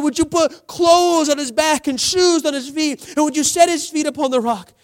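loud, high mock intercession; acted fervent prayer. Believer praying over a hungry brother instead of helping, fervent and loud.

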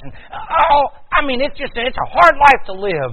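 loud, high preacher voicing a grumbler; mock exasperated complaint. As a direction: build to a high, exasperated outburst. Voices people's complaint about an oppressive God.

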